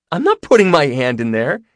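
high, loud squeamish squeal; girlish squeal of refusal. A narrator's reading. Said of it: "she squealed".

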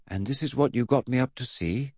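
a hint of nerves, rising at the end; nervous question. Eddie asks about the hearse, mildly nervous. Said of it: "asked Eddie nervously".

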